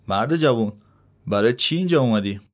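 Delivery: put-on a friendly old gardener asking, smile in the voice; smiling question. Old gardener greets the young man, smiling and friendly. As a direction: ask kindly with a smile. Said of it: "با لبخند پرسید".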